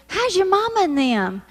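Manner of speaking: drawled Southern greeting, "How's your mama and them" stretched out. Shown as a demonstration. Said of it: "when we say".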